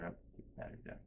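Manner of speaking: softly whispered grumble to himself; mumbled aside. Retold or imitated. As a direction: mutter it under the breath.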